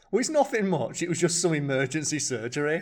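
high, laughing, casual Brit; understated British voice. Retold or imitated. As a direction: play it down, terribly British. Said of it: "the most British thing I think I've heard you say".

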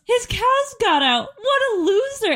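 high crying mock whine; mocking sister. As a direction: whine it like a sobbing kid. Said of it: "And she goes".

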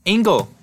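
Angle said like the math word, loud and high; loud mock Angle for Angel; mispronounced Angel. Teasing the show character's name, a loud mock Angle. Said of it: "Can she please just call him Angle?".

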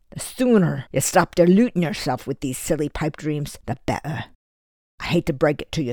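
a lightly voiced Scottish father, scornful and firm; dismissive stern father. Father telling Eddie he is no Lord Byron, scornful. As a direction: knock the boy's pipe dream down, coldly.

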